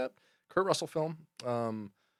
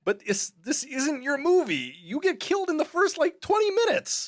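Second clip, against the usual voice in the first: much higher, rising, mocking street voice; scoffing, pitched way up; John Leguizamo impression; 4 dB louder than usual. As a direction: jeer at him, climbing higher each phrase. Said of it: "John Leguizamo kinda talks like this".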